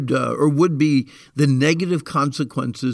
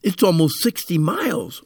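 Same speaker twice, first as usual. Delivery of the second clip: put-on higher, pleading whiny child; whiny kid excuse; 4 semitones higher than usual. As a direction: whine like a kid dodging a chore. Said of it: "do you have a favorite excuse".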